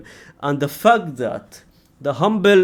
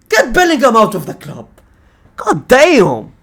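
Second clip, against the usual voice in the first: higher, louder groan; exasperated rant; 6 semitones higher, 4 dB louder than usual. Real, not acted. Fan fed up with Bellingham, exasperated groan.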